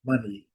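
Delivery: money said mani with a short A-like vowel; money with a short open first vowel; English money. Shown as a demonstration. Teacher modelling English money for students. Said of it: "a pronúncia mais aconselhável".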